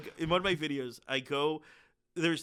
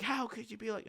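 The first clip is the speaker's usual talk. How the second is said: high-pitched imitation of tearful reproach; mock bawling; 8 semitones higher, 4 dB quieter than usual. Imitating a protester bawling her eyes out, mock tearful reproach. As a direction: lightly put on a high, wounded voice. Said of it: "bawling her eyes out".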